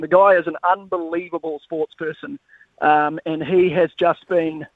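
winded from climbing stairs; puffing between words; out of breath. Real, not acted. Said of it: "I'm actually out of breath 'cause I was just climbing the stairs".

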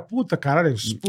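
cursing under breath. Retold or imitated. Guy curses himself after rejection.

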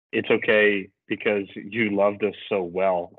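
slow, tender goodbye to the dog; slow tender farewell. Retold or imitated. Owner saying goodbye to his dying dog, slow and tender. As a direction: say it slowly, like a final farewell. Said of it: "he's just like".

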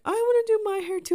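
put-on high, fast kid-sister voice; eager little sister. Little sister wanting to join in, mock eager whine. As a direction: imitate a younger sibling piping up eagerly.

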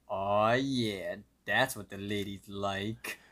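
slow, self-admiring mock murmur to oneself; talking to himself. Mordecai combs his hair for the ladies, talking to himself. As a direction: imitate someone slowly admiring himself. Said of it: "starts talking to himself".

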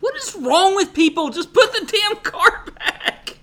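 high, ranting disbelief with a laugh; rant, stretching out the words; worked-up, high-pitched indignation; exasperated. Real, not acted. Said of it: "that makes me so mad".

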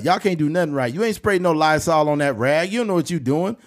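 mock telling-off of the grandchildren; chastising grandma. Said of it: "She was chastising".

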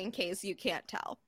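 unvoiced whispered confession; whispered aside. Real, not acted. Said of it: "I have had several drinks today".

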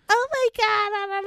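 high, hammy sing-song mock; overacted mock drama. Mocking overacting in a movie scene, hammy sing-song. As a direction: lightly send up melodramatic acting. Mocking over-the-top acting.

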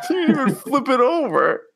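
laughing. Real, not acted. Repeating quote laughing.

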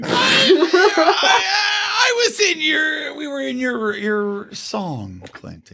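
high mock outrage, fading; indignant shout. Real, not acted.

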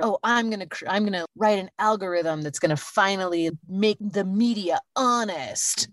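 light parody of a tech bro. Retold or imitated. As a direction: mimic a Silicon Valley tech bro. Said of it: "I love Amy's tech bro voice".

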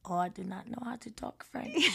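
hesitant attempt at a French accent. Shown as a demonstration. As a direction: try a French accent on request. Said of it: "now say that with a French accent".

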